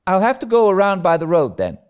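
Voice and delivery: quick, mildly sulky concession; reluctant. Acted. Anne giving in to the errand, reluctant. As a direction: give in grudgingly. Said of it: "taking up her hat reluctantly".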